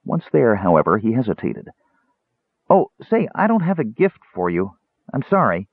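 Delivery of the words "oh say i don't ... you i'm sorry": high, sudden afterthought; apologetic kender. Acted. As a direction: start high, then settle into apology.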